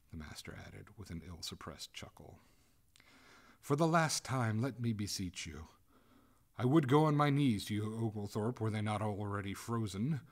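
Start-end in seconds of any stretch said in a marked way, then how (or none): 3.6-10.2 loud, higher imploring; acted frantic plea; desperate begging. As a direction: beseech them as a last appeal. Freezing ghost begs for mercy.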